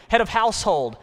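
God calling out. Acted. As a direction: preach it as God's summons to husbands. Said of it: "says God".

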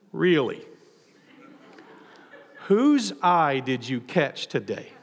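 slow, teasing question with a laugh; amused, knowing mother-in-law; knowing tease. Acted. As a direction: let Naomi chuckle as she needles her. Naomi teasing Ruth about Boaz.

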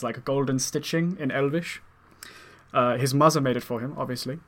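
put-on German-accented character voice. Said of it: "that's, like, a good German accent".

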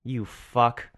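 muttered inner curse at a rude customer; cursing him out only in your head; silent fury in my head. Retold or imitated. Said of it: "In my head, I'm like".

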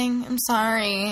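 lightly acted drawn-out apology; slow mock apology at a normal pitch; imitating Kate. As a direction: stretch out a lightly mimicked apology. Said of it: "echoes Kate. Like, Kate's like".

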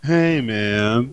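lightly voiced, drawn-out lazy greeting; lazy Eeyore-like dog. Co-host copying the dog's voice, lazy and disinterested. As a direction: echo the bored dog voice. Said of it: "Oh, so like Eeyore?".

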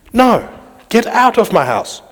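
high, slow, forceful order; firm command. Pretend. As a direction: throw the thieves out, slowly and firmly. Ordering thieves out.

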